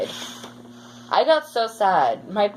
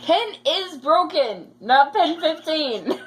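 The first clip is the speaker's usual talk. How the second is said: high-pitched giggly correction, higher; laughing correction; 10 semitones higher, slower than usual. Real, not acted. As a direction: laugh while correcting her. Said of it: "It just says penis broken".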